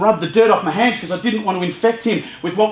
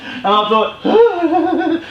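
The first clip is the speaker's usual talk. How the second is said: laughing through the words; a real laugh breaking in; 7 semitones higher, much slower than usual. Real, not acted. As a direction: chuckle at the memory as you speak. Laughing at the dusty footprints.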